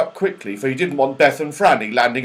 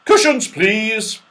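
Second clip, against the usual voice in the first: high, slow, louder squirrel voice; 8 semitones higher, 5 dB louder, slower than usual. Acted. Red squirrel asking the children for cushions, high and slow. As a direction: ask politely for the cushions. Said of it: "he said".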